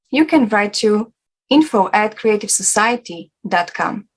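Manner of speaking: steady announcer read of a topic list; promo read. Acted. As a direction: present each topic like an ad voice-over. Reads forum topics list.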